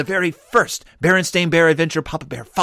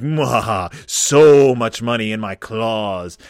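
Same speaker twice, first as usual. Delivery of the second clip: greedy villain cackle; 3 semitones lower, slower than usual. Pretend. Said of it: "this look in their eyes like".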